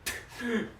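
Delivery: soft little chuckle; quiet joking laugh. Acted. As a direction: chuckle at your own joke. Father jokes about mama's looks.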